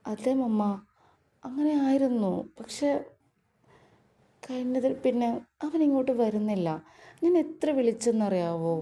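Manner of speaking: sweet wheedling complaint, kept light; coaxing, childlike. Acted. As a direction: Meenu sulking to Jay's mother about her husband. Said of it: "മീനുവിൻ്റെ കൊഞ്ചിയുള്ള സംസാരം".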